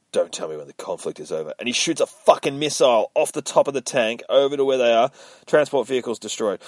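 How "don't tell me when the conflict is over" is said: gruff Frank reply. Acted. Frank snaps at his armor.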